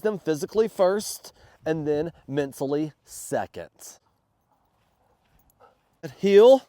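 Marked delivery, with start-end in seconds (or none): 6.2-6.6 sharp loud call to the dog; firm command. Real, not acted. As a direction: bark out the command, high and loud.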